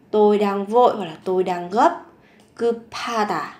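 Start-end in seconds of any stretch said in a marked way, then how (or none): 2.6-3.5 급하다 with ㅂ and ㅎ joined into an aspirated "p"; nối âm. Shown as a demonstration. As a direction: link 급하다 so it sounds like "geu-pha-da". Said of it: "đọc nối lên thành âm". (급하다 đọc nối âm bờ và hờ thành âm bật hơi)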